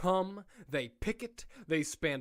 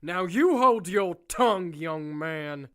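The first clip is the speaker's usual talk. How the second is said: stern rebuke; 4 dB louder than usual. Acted. Warden scolding the doctor.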